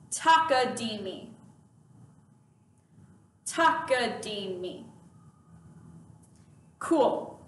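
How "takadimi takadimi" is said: measured, evenly spaced Takadimi; repeat-after-me model. Shown as a demonstration. Teacher asks students to repeat after me, measured delivery. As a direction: model Takadimi clearly for repetition. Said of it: "Now repeat after me".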